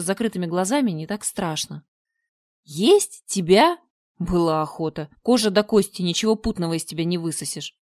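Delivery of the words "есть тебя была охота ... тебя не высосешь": a monster turning up its nose; smacking lips. Acted. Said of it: "причмокнуло чудовище". (чудовище причмокивает с презрением)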